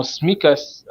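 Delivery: Smikas in two syllables, S run straight into M; unsure pronunciation. Real, not acted. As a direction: say Smikas as SMEE-kus, no vowel after S. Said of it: "is that how they pronounce".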